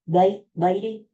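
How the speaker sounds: lightly imitated Australian accent; a hint of mock Australian. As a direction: toss in a touch of Aussie. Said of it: "At first I did the Australian".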